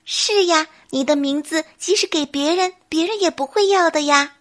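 a touch of playful bunny cheer; giggly rabbit. Acted. Rabbit reassures the bear, lightly cheerful. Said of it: "小白兔笑嘻嘻地说".

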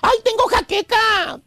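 slow mock complaint; esposa exasperada. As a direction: drag it out like a fed-up wife. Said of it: "A punto de jalarse las greñas". (quejido lento de esposa harta, imitado)

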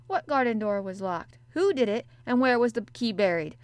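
loud, rushing questions, suddenly keen; eager exclamation. A narrator's reading. Boy sitting up to ask about the locked garden, excited. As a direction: burst out, suddenly very much interested. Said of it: "he exclaimed".

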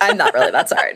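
high, giggly, unapologetic; laughing gleefully. Real, not acted. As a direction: grin through the words. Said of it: "smiling as I say it in, like, glee".

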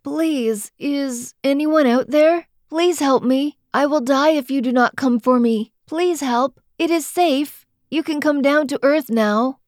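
high, pleading cry for help; weak trapped cry for help. A narrator's reading. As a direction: beg the sky to come save you. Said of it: "I began to say what they told me".

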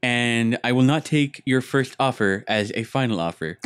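lightly voiced nerd, haggling formally; a hint of mock-nerd officiousness. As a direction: state terms like a comic nerd. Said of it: "the nerd voice".

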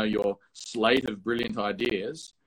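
dry, mocking praise on brilliant; sarcastic. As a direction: say it with mock admiration. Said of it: "I say that in such a sarcas-, sarcastic manner".

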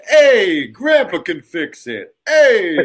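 hammed-up Brooklyn tough guy, loud hey; lightly done Brooklyn, slow on the line; mock Brooklyn accent. Friend teasing the boy's school line, mock Brooklyn accent. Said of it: "You were from Brooklyn all of a sudden?".

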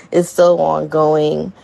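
laughing through the words; nervous giggle while speaking. Real, not acted. Nervous laughter about the journey.

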